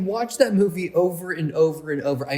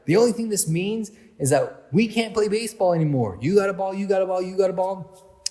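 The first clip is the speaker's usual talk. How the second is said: lightly voiced ringleader kid, pitched up; mild movie-quote voice, urgent challenge to the group; acted-out movie kid; 3 semitones higher than usual. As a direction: quote the kid ringleader, higher than usual. Acts out Benny's line from film.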